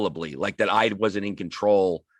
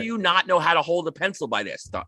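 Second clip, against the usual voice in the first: higher, hammed-up scolding of a student; mock teacher yelling; 6 semitones higher than usual. Teacher mock-scolding a student who can't hold a pencil, higher and exasperated. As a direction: play a teacher losing it, half in jest. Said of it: "they don't start screaming at you".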